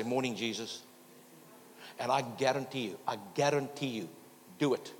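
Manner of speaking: loud, driving sermon delivery; full-force preaching. Acted. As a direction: preach it out to the whole congregation.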